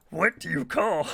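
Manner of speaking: failed Yoda voice into laughter; attempting Aaron's Yoda joke voice; Yoda impression. Telling chat the Game Grumps joke, broken Yoda voice. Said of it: "I can't do the voice right".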